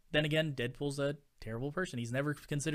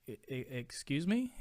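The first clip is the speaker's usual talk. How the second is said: stunned stammer. Retold or imitated. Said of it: "And I'm just like".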